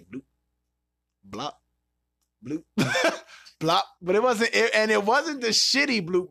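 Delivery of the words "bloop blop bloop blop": stomach noises. Retold or imitated. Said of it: "my stomach is say".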